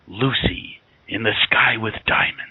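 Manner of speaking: lightly mimicked slow spoken-word lyric; William Shatner spoken song. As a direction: speak the song title slowly, as a mock recital. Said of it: "he kinda just spoke during them".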